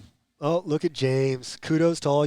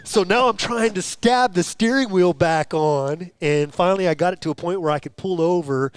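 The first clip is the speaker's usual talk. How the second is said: loud, higher animated recounting; retold exasperated racer; 4 semitones higher, 5 dB louder than usual. Imitating Cody fighting to stab the steering wheel back on, animated exasperation. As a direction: keep up the racer's mock-exasperated tale, louder. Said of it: "he's like".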